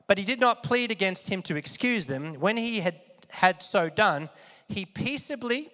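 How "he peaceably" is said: slow, soft stress. Shown as a demonstration. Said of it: "everyone say peaceably".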